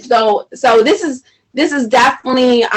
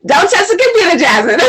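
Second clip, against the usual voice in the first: calling out to her daughter; 5 semitones higher, faster than usual. Real, not acted. Calling to child off-mic.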